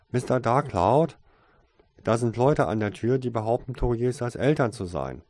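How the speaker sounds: loud call through a door; calling loudly. A narrator's reading. Tasein calling loudly to Mister Darkcloud. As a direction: call out so all can hear. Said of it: "Trotzdem rief er laut".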